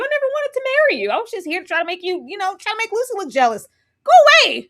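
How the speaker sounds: high, rapid mock tirade; reenacting a heated breakup rant; acted rejection. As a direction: rattle it off, bursting loud at the end. Acting out a couple's quarrel.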